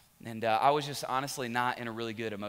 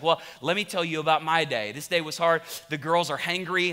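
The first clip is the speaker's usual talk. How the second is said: wife's defensive retort, somewhat louder; 2 semitones higher, 5 dB louder than usual. Retold or imitated. Wife telling her husband about her hard day, defensive. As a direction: imitate a wife justifying herself. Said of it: "she kicks into self-defense mode".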